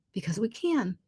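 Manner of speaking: breathy whisper on because we can. Real, not acted. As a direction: drop to a whisper for the twist. Punchline whispered.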